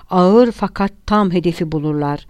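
mildly declaimed, like a speech; understated triumphant eloquence; a touch of relish in the phrasing; oratorical. A narrator's reading. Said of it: "belagatle ve muzaffer bir tavırla".

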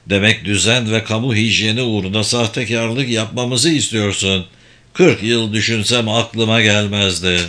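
low-pitched sardonic con man; alaycı dolandırıcı. Acted. Locke mocks the scheme. (pes sesli, iğneleyici dolandırıcı)

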